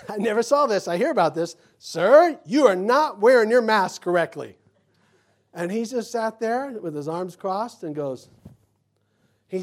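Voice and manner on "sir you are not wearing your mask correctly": loud, raised retold reprimand; mock scolding. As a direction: imitate a fussy lady telling a man off. Little lady scolds man over mask.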